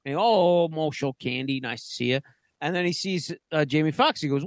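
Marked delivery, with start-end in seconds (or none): 0.2-2.2 imitação de Sam Jackson. Retold or imitated. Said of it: "Sam Jackson comes out".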